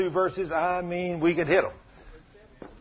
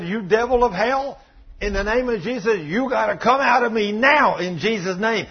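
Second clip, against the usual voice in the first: higher-pitched commanding rebuke; retold rebuke; 4 semitones higher than usual. Man orders devil out of him, retold rebuke.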